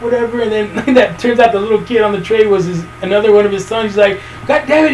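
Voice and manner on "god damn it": higher-pitched mock anger; pissed off. Retelling the angry dad scolding the zombie, mock pissed off. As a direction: play an exasperated dad, pitched up. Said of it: "pissed off".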